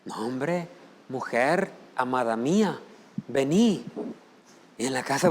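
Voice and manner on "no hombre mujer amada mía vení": softer, lower sweet talk to a wife; a light touch of put-on tenderness; mock tender husband. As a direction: play the loving husband at church. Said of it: "Aquí nadie le grita a su esposa".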